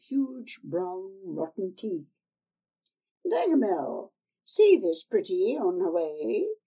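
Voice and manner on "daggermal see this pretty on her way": shouted order. Acted. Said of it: "Mother Ratchey shouted".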